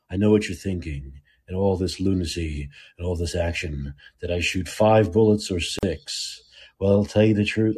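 low, quiet, measured movie tough guy; Dirty Harry. Acted. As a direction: lightly quote a cool gunslinger, keeping it low. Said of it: "Dirty Harry walked into the room".

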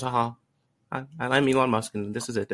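halting, lightly put-on tech billionaire voice; a tentative, half-hearted celebrity impression; Elon Musk. Podcaster trying a billionaire impression for his co-host, lightly put-on voice. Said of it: "one of those voices that's like this".

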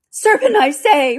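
high, loud, slow accusation; shrieky bird insisting on the charge; insistent pigeon. A narrator's reading. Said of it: "but in a more subdued tone".

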